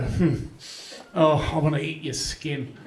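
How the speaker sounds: lightly voiced creepy killer, a hint of menace; mock a serial killer, only just. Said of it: "I didn't go".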